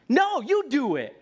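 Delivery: a dad mock-refusing to help his kid; teasing dad. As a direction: toss it back at the toddler. Dad's retort in story.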